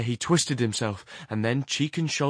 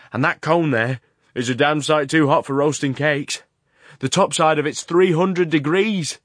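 raised, high shouting voice over the blast; loud over the roar; 5 semitones higher, 9 dB louder than usual. A narrator's reading. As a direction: shout it to be heard over the furnace. Horrocks shouting over the furnace.

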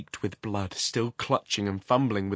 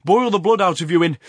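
loud, raised threat cut off; menacing shout; 9 semitones higher, 12 dB louder, faster than usual. A narrator's reading.

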